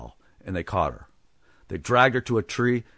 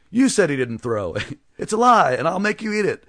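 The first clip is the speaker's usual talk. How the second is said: high, loud furious yelling; violent accusation; 9 semitones higher, 5 dB louder than usual. Acted. Townsfolk violently accusing one another, furious yell. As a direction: hurl the accusation at a neighbour. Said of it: "many began to violently accuse one another".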